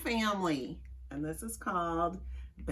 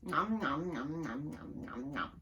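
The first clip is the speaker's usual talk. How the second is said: pretend eating; 3 semitones lower, 6 dB quieter than usual. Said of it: "let's pretend we're eating something yummy".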